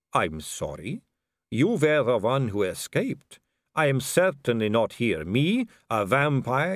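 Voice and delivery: a vampire noblewoman purring at a dangling man; suave vampire lady. Acted.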